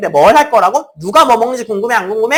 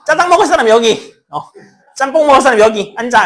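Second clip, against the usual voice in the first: raised-voice acted instruction; calling out; 3 semitones higher, 5 dB louder than usual. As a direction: call out seating orders like a teacher. Teacher acts out seating the students.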